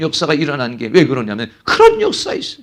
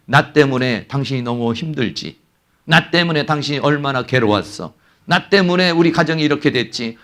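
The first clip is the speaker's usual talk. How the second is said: tender apology; 3 semitones lower, 3 dB quieter than usual. Pretend. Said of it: "회개가 일어나면".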